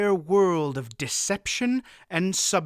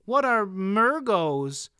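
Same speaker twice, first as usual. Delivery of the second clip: put-on boy voice; 6 semitones higher, 3 dB louder, slower than usual. A narrator's reading. Boy asks eagerly.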